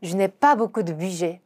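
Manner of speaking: slow careful French; slow model sentence; slow repeat. Shown as a demonstration. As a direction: repeat slowly. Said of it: "avoir 동사 사용해서 물어봅시다".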